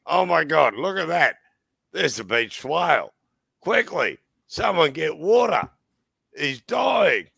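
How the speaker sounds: high, loud alarmed crowd calls; excited shouting. Retold or imitated. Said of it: "there's Australians on the beach going".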